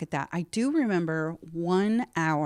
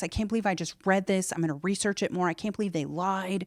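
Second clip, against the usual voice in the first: higher-pitched venting that settles as it goes; retold anger; 3 semitones higher than usual. Woman venting to the man on the ladder, retold anger. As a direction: relive the angry rant, starting high, without shouting. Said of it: "And I got so angry".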